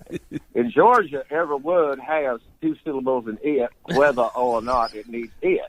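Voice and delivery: slow Georgia accent, words stretched; lightly put-on Southern drawl from Georgia. Shown as a demonstration. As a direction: stretch each word into two syllables, Georgia-style. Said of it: "combined with Georgia, which was a real mess".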